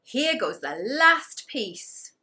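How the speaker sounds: loud, slow, drawn-out announcement; excited call. Acted. Gumboot announcing his final throw to the ducks, loud and slow. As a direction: stretch it out for the big throw.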